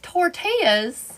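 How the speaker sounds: Tortillas? slow, rising, unsure; puzzled over Tortillas?; questioning tortillas. Shown as a demonstration. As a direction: stretch Tortillas? out slowly and doubt it. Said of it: "I don't even know how I said it".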